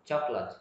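"Chocolate" as two syllables, "chok-lat"; middle syllable glided over. Shown as a demonstration. Teacher repeats the word for learners, middle syllable glided over. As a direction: skim the middle of "Chocolate", keep it small. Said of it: "ở giữa đọc lướt luôn".

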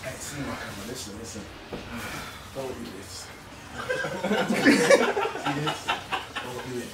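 talking with a mouthful; mouth full. Real, not acted. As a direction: speak round food held in mouth. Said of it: "Can't even hold saliva with my mouth".

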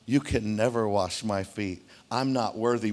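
low, slow mock pious voice; fake humble Peter. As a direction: act humble but don't mean it. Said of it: "because he wants to appear religious".

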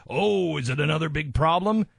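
retold sneering brush-off; mocking. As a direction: imitate staff mocking the parents. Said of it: "mocked the family".

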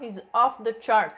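lightly voiced TV chef; Bobby imitation. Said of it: "That was a good Bobby imitation".

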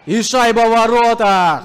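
loud goal shout; goal call. Real, not acted. Goal call in hockey commentary. (громкий крик «гол»)

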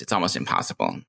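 it's almost impossible, dropped low into baritone; old deep voice. Shown as a demonstration. Trans speaker demoing her old voice, low baritone. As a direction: sink right down into the old voice. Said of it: "If I try to go back to that, to my old voice".

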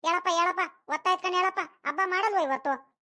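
insistent grandmotherly scolding; scolding wake-up. Acted. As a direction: nag a sleeper out of bed. Grandmother scolds sleeping child awake.

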